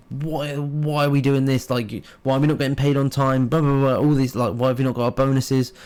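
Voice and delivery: mildly exasperated retold complaint; venting. Streamers complaining to each other about their agency, venting. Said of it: "we'd sit there venting".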